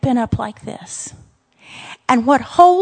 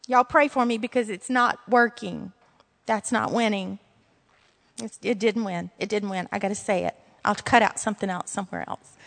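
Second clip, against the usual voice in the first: softer, deflated asides to the congregation; sheepish aside; 5 semitones lower, 6 dB quieter, faster than usual. Real, not acted. Preacher confessing to the congregation her point flopped, softly. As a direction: own the flop with a quiet chuckle-free shrug.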